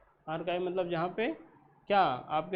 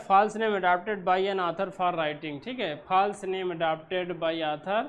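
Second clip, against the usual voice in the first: reading the definition out slowly; slow, deliberate teacher dictation; 4 dB louder, much slower than usual. Shown as a demonstration. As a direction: dictate each word clearly, slowly. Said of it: "teacher dictating definition slowly".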